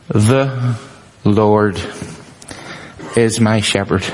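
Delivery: slow, with pauses between The, Lord and is my shepherd, weight on "is"; slow emphatic reading. Shown as a demonstration. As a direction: read "The Lord is my shepherd." word by word, leaning on "is". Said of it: "And again, we glance over it".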